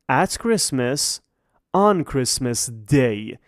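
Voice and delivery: very slow, each word laid out for learners; deliberate classroom drill pace; slow model phrases. Shown as a demonstration. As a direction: spell it out slowly like a teacher. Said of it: "teacher contrasts two prepositions".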